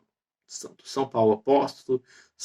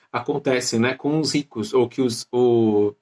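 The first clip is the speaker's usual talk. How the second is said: choking mid-sentence; slower than usual. Real, not acted. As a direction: voice catching on a choke. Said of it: "eu me engasguei todo aqui".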